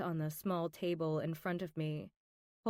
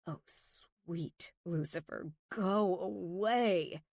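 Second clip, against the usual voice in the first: exasperated. Acted. Wants the assistant gone.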